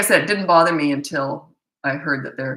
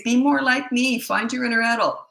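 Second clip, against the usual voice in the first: higher, lightly mocking parent voice; sarcastic mock lecture; mock patronizing; 5 semitones higher than usual. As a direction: send up the condescending message. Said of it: "What you're saying is".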